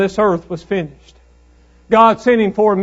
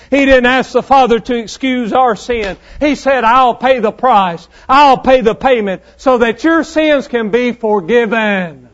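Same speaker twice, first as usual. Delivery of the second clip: insistent, emphatic sermon delivery; forceful preaching; 3 semitones higher, 3 dB louder than usual. Real, not acted. Preacher urging sinners that Jesus took their place, forceful preaching. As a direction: drive each point home to the congregation.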